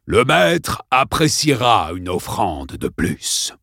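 slow, cold threat; menacing principal. Acted. Principal threatens the children, slow and cold. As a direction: let each word hang, calmly cruel.

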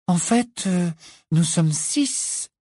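lent et tranquille, en comptant; calmement. Acted. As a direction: compter posément, sans se presser. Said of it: "dit calmement Luna". (Luna compte le groupe, calmement)

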